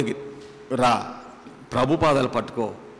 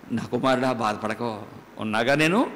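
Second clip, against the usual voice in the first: gentle reassurance; 3 semitones lower than usual. Retold or imitated. God's gentle answer.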